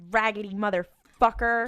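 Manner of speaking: mock yell at a TV character; yelling at screen. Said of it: "I yelled at the screen".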